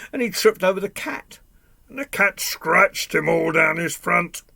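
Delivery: dramatic, high-energy narration; excited storytelling. A narrator's reading. Second mishap in the chase.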